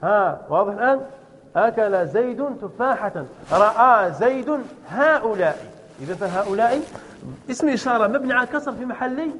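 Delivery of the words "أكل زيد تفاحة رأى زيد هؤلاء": slow dictation. Shown as a demonstration. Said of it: "teacher dictates example sentences".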